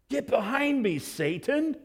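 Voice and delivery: high, sharp Get behind me, Satan; stunned sharp command; sharp rebuke. Acted. Re-enacted rebuke.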